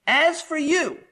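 AS FOR YOU, high and punched; emphatic. Shown as a demonstration. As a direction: hit "As for you" hard, up high. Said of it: "this is what would be very emphatic".

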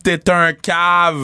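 each word dragged out slowly; slow deliberate insult. Retold or imitated. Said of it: "J'ai dit".

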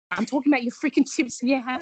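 mock fed-up auntie laughing; laughing exasperation.

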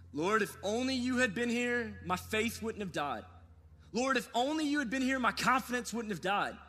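rising anguished prayer. Pretend. Prayer growing more desperate.

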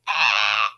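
mock screech of water lines; imitated pipe scream. Host imitates water coming back on, screeching. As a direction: screech like water rushing back through pipes. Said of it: "So it was screaming at you".

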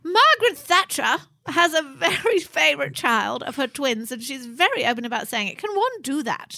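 lightly posh royal voice, pitch up; a hint of a prim monarch; the Queen impression. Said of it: "come on, do her".

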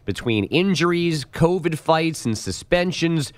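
polished radio headline delivery; scripted sports-desk bulletin; sports news read. Acted.

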